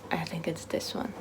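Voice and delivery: whispered softly while showing the book. Real, not acted. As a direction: hush it like showing a treasure. Shows the beautiful book.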